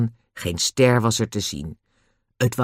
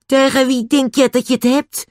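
high, loud angry challenge; furious shout; 13 semitones higher, 5 dB louder than usual. A narrator's reading. Man snaps back at the boy, furious shouting.

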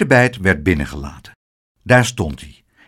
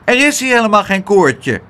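high, loud little doorman; piping, emphatic little character; little voice calling out; 10 semitones higher, 5 dB louder than usual. A narrator's reading. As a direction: call out a denial in a small high voice. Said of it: "een stemmetje dat riep".

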